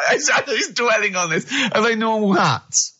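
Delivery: high-pitched, near-tearful disbelief; comic exasperation. Real, not acted. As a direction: plead for sense through a laughing wail. Exasperated at Carl's endless hat riddle.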